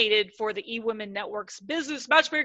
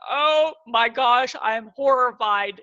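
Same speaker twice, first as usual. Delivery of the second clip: mock horror; 6 dB louder, slower than usual. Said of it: "things that you're like".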